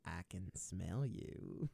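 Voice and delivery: slow, low creepy whisper-toned line; creepy white guy voice. Acted. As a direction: drag it out slowly like a creepy stranger. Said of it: "Now you just sound like a creepy white guy".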